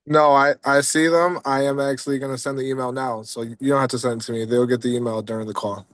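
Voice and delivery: numb mouth after the dentist. Real, not acted. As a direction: speak through a numb cheek. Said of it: "your face is numb".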